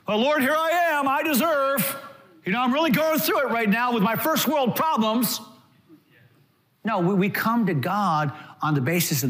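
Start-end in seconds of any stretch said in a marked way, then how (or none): 0.1-5.4 mock entitled prayer. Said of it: "We don't come to God on the basis of our goodness".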